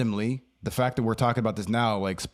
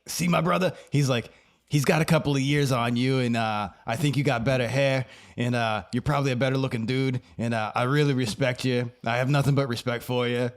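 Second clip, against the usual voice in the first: Stone Man's text; 2 semitones higher than usual. Retold or imitated.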